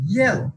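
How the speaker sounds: ইয়েলো, stressed on ইয়েল and falling; first-syllable stress. Shown as a demonstration. Teacher demonstrating to students, first syllable of ইয়েলো stressed. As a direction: hit ইয়েল in ইয়েলো, release the rest. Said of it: "stress দিব".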